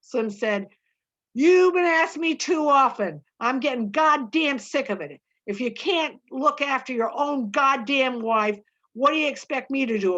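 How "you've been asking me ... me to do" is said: sharp, louder and higher, fed up; angry outburst. Acted. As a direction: bark it at him, sick of being asked. Slim snaps at Curly.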